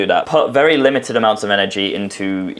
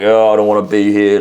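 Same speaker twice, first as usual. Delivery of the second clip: a hint of a sulky, stroppy teen; stroppy boyfriend; 4 dB louder than usual. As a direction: mildly mimic a moody boyfriend. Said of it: "like, all stroppy and shit".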